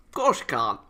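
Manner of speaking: mock indignant jab. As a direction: bite back at the line. Louder sarcastic repeat.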